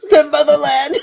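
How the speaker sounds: laughing mock Russian accent; booming laughing Russian voice. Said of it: "picture you saying this in a Russian accent".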